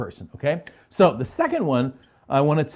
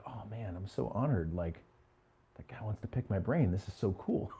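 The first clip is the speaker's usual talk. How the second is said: hushed awe; 5 semitones lower, 13 dB quieter than usual. Retold or imitated. Recalls his awed younger self.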